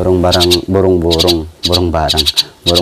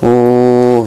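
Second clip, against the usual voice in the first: pained grunt; 4 semitones higher than usual. Real, not acted. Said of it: "sakit loh".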